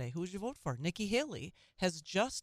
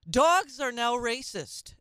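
incredulous outrage; 7 semitones higher, 9 dB louder, slower than usual. Real, not acted. Outraged at news headline.

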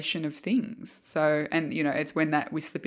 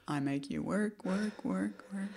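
mock slave-driver; 3 semitones higher, 7 dB quieter than usual. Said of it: "I am a jerk like that".

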